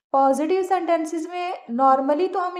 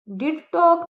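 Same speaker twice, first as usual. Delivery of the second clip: "did" stressed, a bit louder; emphatic did; 3 semitones higher, 4 dB louder than usual. Shown as a demonstration. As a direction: insist on "did". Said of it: "जोर डाल के बोलेंगे". ("did" पर ज़ोर)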